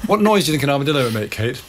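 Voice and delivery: fast, giggly question; laughing. Real, not acted. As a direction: ask it through a laugh. Laughing over armadillo story.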